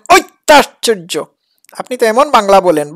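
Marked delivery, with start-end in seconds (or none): 0.1-1.2 "অত্যাশ্চর্য" pushed out in forced syllables; mock straining. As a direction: bear down on "অত্যাশ্চর্য" in mockery. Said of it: "এমন চাপ দিয়ে বলেছেন".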